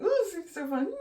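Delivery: high, fast excited squeal; giddy anticipation. Real, not acted. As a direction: squeal with glee at what's coming. Giddy about trying more colours.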